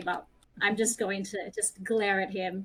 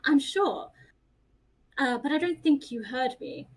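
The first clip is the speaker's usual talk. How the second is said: amused haughty dismissal; 5 semitones higher, 3 dB louder than usual. Acted. Laughing haughty reply.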